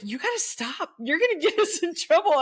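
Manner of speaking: a hint of a worried husband; husband warning. Husband hushing her in public, mildly worried. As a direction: urge her to stop, half-hearted. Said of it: "my husband's like".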